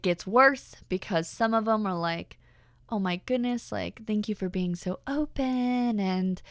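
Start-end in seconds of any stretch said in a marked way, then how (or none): 2.9-6.4 a lightly put-on, sugary grateful guy; gushing admirer voice. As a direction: mimic the guys' overly touched reply, drawn out. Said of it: "I don't know why I'm talking like this".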